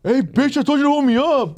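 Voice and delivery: mock angry yell. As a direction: yell at her like the guy did. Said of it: "reenacting the man yelling".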